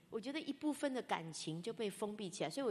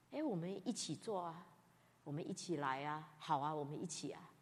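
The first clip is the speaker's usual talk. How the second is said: softer, coaxing "我们一起"; gentle invitation; 3 semitones lower, 5 dB quieter than usual. Retold or imitated. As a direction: invite a friend kindly. Gently inviting others to join.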